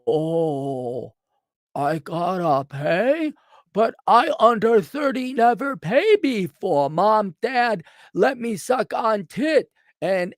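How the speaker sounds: lightly voiced whiny freeloader, slowed; a hint of a helpless man-child begging; mock whiny freeloader. Mocking clients who won't pay, whiny and slow.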